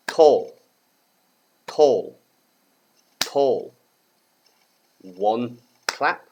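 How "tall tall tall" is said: "Tall" as one firm falling beat; single-syllable beat. Shown as a demonstration. Teacher claps out syllables for pupils, single-syllable beat. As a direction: say "tall" in separate single beats, pausing between. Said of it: "clapping for syllables".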